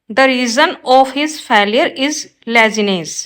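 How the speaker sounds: slow, careful read of the wrong sentence; slow teacher dictation. Shown as a demonstration. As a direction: spell it out word by word for the class. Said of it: "right होगा ये".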